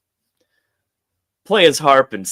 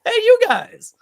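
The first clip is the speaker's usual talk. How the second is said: much higher and louder delighted yell; excited shout; 13 semitones higher, 5 dB louder than usual. Retold or imitated. Bail Domon spotting them at the docks, loud excited yell. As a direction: greet them like long-lost pals. Belle Doman greets them loudly.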